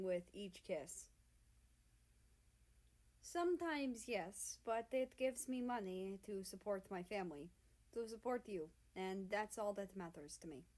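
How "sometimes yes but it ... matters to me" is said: soft. Acted. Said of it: "he says softly".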